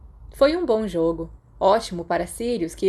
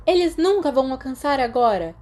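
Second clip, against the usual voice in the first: gleeful cheer, pitched higher; mild shout; 5 semitones higher, 3 dB louder than usual. Acted. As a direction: call it out over the cheering. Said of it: "Peter gritou". (grito animado, mais agudo)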